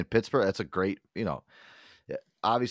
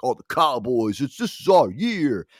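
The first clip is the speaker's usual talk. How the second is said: loud, raised-pitch mocking fan voice; Cowboys fan; 5 semitones higher, 8 dB louder, slower than usual. Cowboys fans proclaiming their year, loud mocking imitation. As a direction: imitate a deluded fan boasting, stretched out. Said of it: "Cowboys fans that I hang out with".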